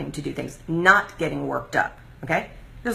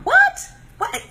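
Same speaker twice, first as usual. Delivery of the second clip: much higher, louder incredulous yelp; incredulous what; 5 dB louder than usual. Real, not acted. Hearing commenters' claims, a loud incredulous what. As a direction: shoot it up in disbelief.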